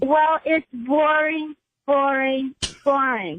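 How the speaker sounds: slow, sneering, falling off; dismissive drawl. Real, not acted. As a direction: drag it out with contempt. Caller mocks topic, drawn out.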